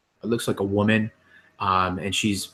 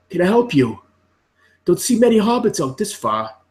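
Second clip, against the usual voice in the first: much higher, louder holler across distance; yelling out; 10 semitones higher, 5 dB louder than usual. Acted. Farmer yells to a hobbit across his field, yelling out. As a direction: shout it to someone far off. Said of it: "he just yells out to".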